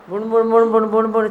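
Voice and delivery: mocking a disciple's unclear mumble; mock mumbling. Guru mimics a mumbling disciple, mocking mumble. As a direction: mumble the syllables like someone hiding words. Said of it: "बिण, बिण करे ॻाल्हाईंदा".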